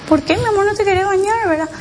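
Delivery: retold gentle coaxing, pitched well up; retold motherly coaxing. Mother asking her son why he won't bathe, coaxing.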